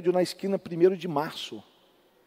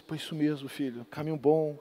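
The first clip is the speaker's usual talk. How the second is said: much softer, lower and weak, like a frail pastor; soft feeble voice; 4 semitones lower, 8 dB quieter than usual. Retold or imitated. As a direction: praise him gently from a sickbed. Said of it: "Aquela voz mansa dele, tudo, fraquinho". (voz mansa e fraquinha)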